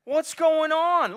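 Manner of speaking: slow, drawn-out shout of what's going on; loud puzzled call. Retold or imitated. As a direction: call out, baffled by the noise. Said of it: "he's like".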